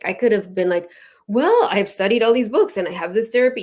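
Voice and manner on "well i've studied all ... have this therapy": mock-defensive self-justifying. Ritual leader justifying herself to a doubter, mildly defensive. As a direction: imitate someone defending their credentials, slightly raised. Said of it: "I could have gotten defensive".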